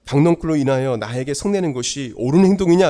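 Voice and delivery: mildly acted divine challenge; God questioning Jonah. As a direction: put the rebuking question firmly, as God. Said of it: "하나님은 요나에게".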